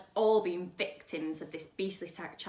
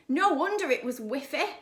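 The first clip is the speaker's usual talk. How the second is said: laughing; 6 semitones higher, 7 dB louder than usual. Real, not acted. Narrator laughs at the joke.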